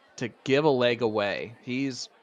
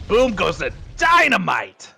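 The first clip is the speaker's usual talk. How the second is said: higher, louder hype shout for the big throw; excited call; 6 semitones higher, 7 dB louder than usual. Real, not acted. Commentator hypes a one eighty, excited shout. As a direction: erupt like the dart just landed a one eighty.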